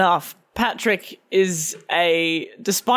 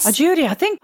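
attempted Irish; 9 semitones higher, faster than usual. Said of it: "how the fuck do you do Irish?".

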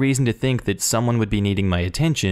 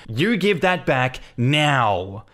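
rage; 3 semitones higher, much slower than usual. Retold or imitated. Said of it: "from baffled to pure rage".

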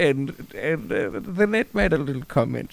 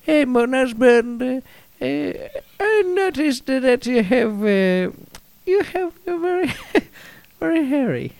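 high-pitched, hammed-up French wife voice; French accent; 10 semitones higher than usual. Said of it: "If you could do it in a French accent".

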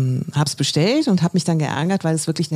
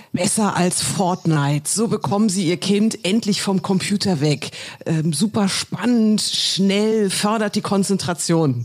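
ad slogan voice. Retold or imitated. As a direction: quote the ad like a salesman. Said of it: "Also Facebook, Werbung".

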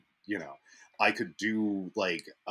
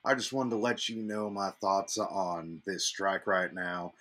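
mock radio caller. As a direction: play an earnest first-time caller, measured. Plays a sports radio caller.

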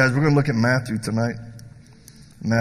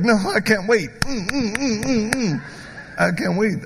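mock eager bravado; 7 semitones higher than usual. Mocking bravado against threats.

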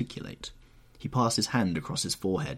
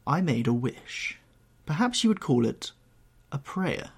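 somewhat higher reproachful recollection; lightly voiced Dorian, reproachful; 3 semitones higher than usual. Young man reminds painter of his wish, reproachful. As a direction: recount it with restrained accusation.

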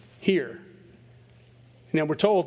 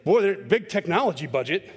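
mock amazement. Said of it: "you'd go".

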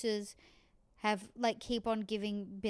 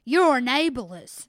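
slow, much louder mock yell; mock accusation; 11 dB louder, slower than usual. Imitating Susie yelling at Billy, slow mock yell. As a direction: drag it out as a loud indignant charge.

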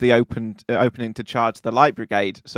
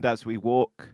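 solemn war poem; 8 dB quieter than usual. Acted. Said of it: "War poem".

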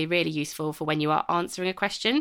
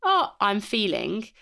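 considered, slow; 3 semitones higher, slower than usual. Shown as a demonstration. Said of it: "pausing before you respond".

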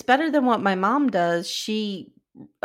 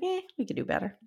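unimpressed; 9 semitones higher, 8 dB quieter, faster than usual. Retold or imitated. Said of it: "I was like".

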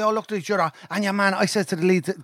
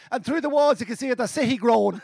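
put-on higher recited lyric, Cavan accent; 5 semitones higher than usual. Mimicking the cover singer, amused Cavan recitation. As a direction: declaim it in Cavan, laughter creeping in. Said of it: "in the Cavan accent".

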